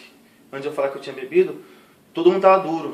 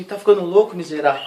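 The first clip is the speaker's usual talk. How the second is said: scolding mother; 3 semitones higher, 6 dB louder than usual. Retold or imitated. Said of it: "minha mãe falou assim".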